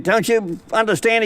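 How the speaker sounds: a light devil voice pushing for fear. Acted. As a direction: try to scare him as the devil. Devil pressing the man.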